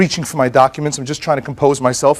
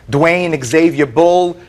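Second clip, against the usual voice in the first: slow, deliberate reading; much slower than usual. Retold or imitated. Reading the signed note aloud.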